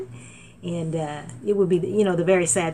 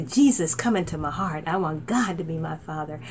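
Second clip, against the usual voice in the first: prayer to repeat; 2 semitones lower than usual. Shown as a demonstration.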